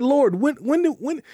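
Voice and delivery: high, puzzled voice of the righteous asking when; baffled crowd. Retold or imitated. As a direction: play confused believers, voice jumping up. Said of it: "They said".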